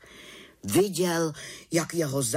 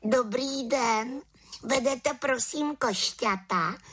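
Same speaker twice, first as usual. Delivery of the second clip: put-on much higher, eager little girl voice; a cheerful small witch with plans; 13 semitones higher, slower than usual. The little witch invites Havran to the village, high and eager. Witch asks shopkeeper politely.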